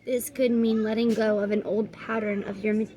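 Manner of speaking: measured, even oracle-card reading; guidebook read-aloud. Real, not acted. Reader giving viewers the card's message, measured read-aloud.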